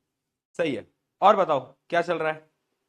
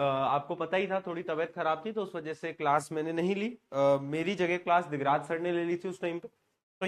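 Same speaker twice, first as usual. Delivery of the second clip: speaking softly to spare a sore throat; 2 semitones lower, 6 dB quieter than usual. Real, not acted. Teacher explaining his missed class, softly through a sore throat. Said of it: "थोड़ा बहुत धीरे बोलूंगा".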